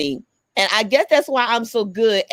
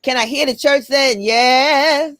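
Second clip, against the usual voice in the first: church voice; 2 semitones higher than usual. Pretend. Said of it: "So I'm gonna do my church voice".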